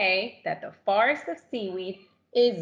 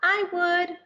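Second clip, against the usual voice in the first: creaky; 9 semitones higher than usual. Acted. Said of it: "creaked a crusty coral".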